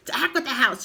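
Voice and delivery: grandma shouting down; shouted. A narrator's reading. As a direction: brush it off loudly. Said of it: "she shouted".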